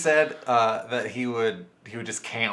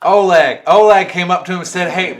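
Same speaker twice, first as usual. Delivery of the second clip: loud, higher Midwest accent; Midwestern accent; 9 semitones higher, 16 dB louder than usual. Shown as a demonstration. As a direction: keep up the Midwest voice. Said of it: "with a Midwestern accent".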